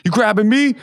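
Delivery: high, mock-indignant question; lightly acted affronted comeback; retold challenge. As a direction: imitate a drunk friend taking offense. Retold friend turns on him.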